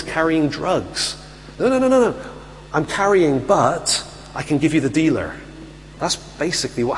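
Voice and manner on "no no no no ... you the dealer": panicked protest. Retold or imitated. Caught with drugs, offers up dealer.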